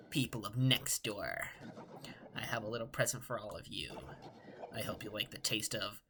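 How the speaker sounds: sinister villain promising despair; mad scientist. Acted. Voicing the Dark Lord villain.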